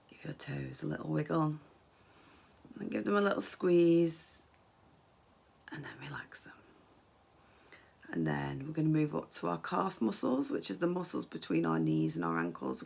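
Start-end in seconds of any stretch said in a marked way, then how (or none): 5.7-6.5 soft release. Shown as a demonstration. Leading relaxation exercise.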